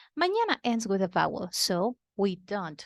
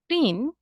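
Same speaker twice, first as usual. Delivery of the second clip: "Prin" by itself, higher and emphatic; stressed syllable alone; 5 semitones higher, 4 dB louder than usual. Shown as a demonstration. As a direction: isolate "Prin" with a lifted pitch. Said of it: "is the antepenultimate syllable".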